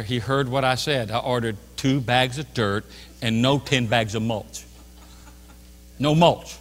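measured, deliberate correction; restrained anger. Retold or imitated. Customer protecting his testimony corrects clerk, restrained anger. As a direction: hold the temper back, word by word.

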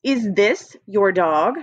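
"Is this your dog?" read slowly with a rising question tune; slow read-aloud. Shown as a demonstration. Teacher reading slowly for the children to find the trick word. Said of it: "listen as I read this sentence".

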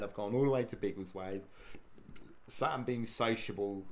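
normal talking voice

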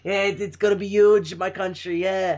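lightly voiced sniveling Trump; a hint of a sniveling Trump; Trump impression. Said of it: "you gotta talk like this".

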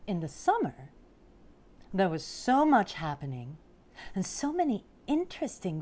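picture-book storytelling, unhurried pauses; storybook narration. A narrator's reading. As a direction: read it to small children, savouring the big words. Reads picture book aloud.

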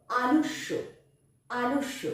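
আলস্য said as "alossho", with a doubled sh; clear pronunciation demo. Shown as a demonstration. Teacher demoing the word to pupils, careful and clear. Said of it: "দন্ত স জফলা".

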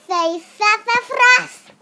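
cheery cue. Acted. Photographer cueing the kids.

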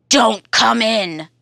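monster voice. Acted. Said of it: "says the thing in Hare's house".

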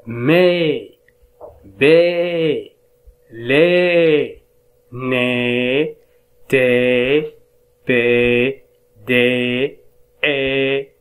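"مي" "بي" "لي" each said apart and even; syllable drill. Shown as a demonstration. Teacher reading the changed syllables aloud. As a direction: chant each syllable clearly. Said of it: "ليصبح".

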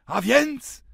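sudden high loud exclamation; exclaimed. A narrator's reading. Benjamin exclaims to Sender, suddenly inspired, loud. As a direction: blurt it out, struck by an idea. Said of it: "wykrzyknął Benjamin".

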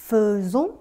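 faisons said as "fe-zon", with a short fe; faisons spoken clearly. Shown as a demonstration. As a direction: make faisons sound like fe-zon for the learner. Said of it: "อันนี้ออกเสียงว่า faisons". (ออกเสียง faisons ว่า เฟอ-ซง อย่างชัดเจน)

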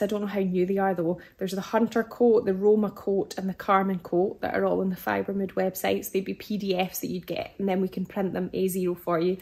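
losing her voice, hoarse. Real, not acted. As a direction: voice fading and rough. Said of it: "really losing my voice now".

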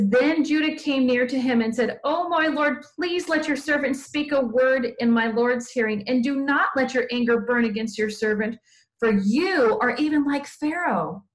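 slightly lifted, measured Bible reading; scripture read aloud. A narrator's reading. Teacher reading the Bible story to children, expressive scripture reading. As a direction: read it out with deliberate weight on the phrases.

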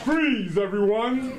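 sharp call for attention; shouting. Acted. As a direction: bark it out to the room. Principal calls the school to order.

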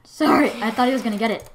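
whispered, out of breath apology; breathless panting. Real, not acted. Gamer apologising to friend, panting and whispering. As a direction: gasp out the apology. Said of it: "What's with all the panting".

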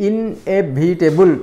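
"ଇନ୍ଏଭିଟେବୁଲ୍" slightly slowed, syllables marked off; "ଇନ୍ଏଭିଟେବୁଲ୍" in short, distinct beats. Shown as a demonstration. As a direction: lightly separate the syllables in "ଇନ୍ଏଭିଟେବୁଲ୍". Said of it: "ଆମେ କହୁଛନ୍ତି".

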